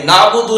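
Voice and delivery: نعبدو with a throaty ain; ain sound. Shown as a demonstration. Teacher showing the ain in nabudu. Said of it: "عین کی جو ایک خاص آواز ہے".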